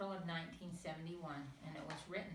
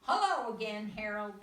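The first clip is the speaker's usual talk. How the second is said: higher, louder cheery fish; fish greeting; 4 semitones higher, 11 dB louder than usual. A narrator's reading. The fish greeting Harold, cheery high voice. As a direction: greet him brightly.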